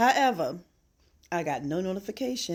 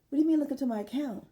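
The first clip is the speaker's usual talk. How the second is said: incredulous retort; 8 semitones higher, much faster than usual. Retold or imitated. Her retort to the agent.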